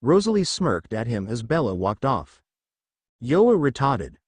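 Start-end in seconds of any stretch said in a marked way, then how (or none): 3.2-4.2 put-on teasing Boston accent. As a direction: drop the r, Boston style. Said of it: "in her very best Boston accent".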